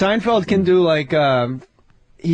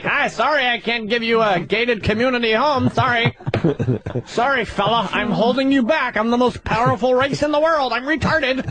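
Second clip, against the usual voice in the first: white guy voice; 3 semitones higher than usual. Retold or imitated. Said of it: "Instead of like".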